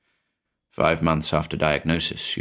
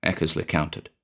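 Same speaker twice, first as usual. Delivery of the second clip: ordinary delivery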